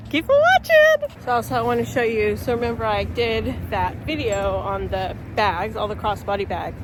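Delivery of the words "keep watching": "Keep watching" sung up high and slow; high playful repeat. Shown as a demonstration. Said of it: "So just keep watching".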